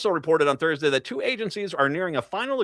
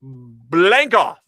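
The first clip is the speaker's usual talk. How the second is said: mock retort; 9 dB louder than usual. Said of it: "I'm paraphrasing".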